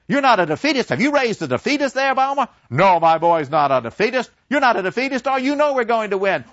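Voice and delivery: put-on high, loud, indignant old men; blustering old men. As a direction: demand he's no defeatist, loudly. Old men grill son as defeatist.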